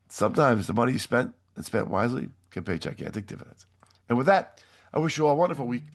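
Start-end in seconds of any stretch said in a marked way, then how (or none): 4.1-5.8 speaking with a hoarse voice; hoarse, rough-throated sign-off. Real, not acted. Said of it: "Sorry for my hoarse voice".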